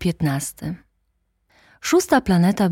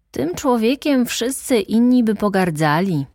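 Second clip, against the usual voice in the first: prince thinking; 6 semitones higher, 3 dB louder than usual. A narrator's reading. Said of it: "pomyślał mały książę".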